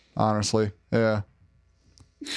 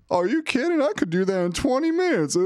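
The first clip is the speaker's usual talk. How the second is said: higher, mock scoffing boss; imitating his boss; 13 semitones higher than usual. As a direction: scoff like the know-it-all manager. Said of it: "he'll just be like".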